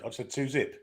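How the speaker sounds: soft, lightly American "two zip"; mock American accent. Pundit repeats his score in a hint of American accent. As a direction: say "zip" like an American would, half-hearted. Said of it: "The accent or the shit?".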